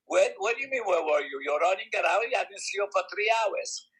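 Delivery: wife demanding where he has been; wife scolding. Retold or imitated. Wife scolding, voiced higher.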